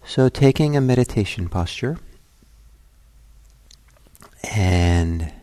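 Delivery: unhurried meditation guidance with long pauses; guided meditation. Acted. Teacher settling listeners at the start of a meditation, calm guiding voice. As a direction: guide them gently inward, phrase by phrase, leaving silences.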